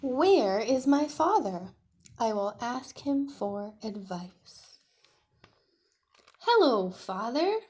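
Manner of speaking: hammed-up young dinosaur, sorry for himself; little dinosaur voice. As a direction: play the sad little T-Rex. Tiny calls for father.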